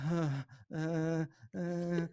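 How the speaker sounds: soft mock whimpering moans; imitated moaning cry.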